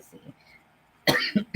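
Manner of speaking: coughing while talking; catching breath after choking. Real, not acted. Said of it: "I'm choking".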